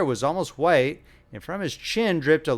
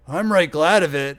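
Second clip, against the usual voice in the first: put-on old man whine; 3 semitones higher, 6 dB louder than usual. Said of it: "whined the old man".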